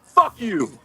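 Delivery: ordinary delivery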